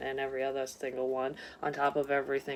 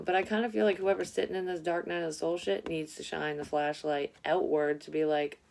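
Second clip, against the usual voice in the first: ordinary talk, nothing marked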